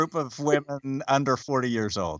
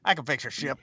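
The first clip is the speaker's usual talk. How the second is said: high eager hey buddy; overfriendly pal voice; chummy Miles; 8 semitones higher, faster than usual. Retold or imitated. Mimics Miles greeting alien.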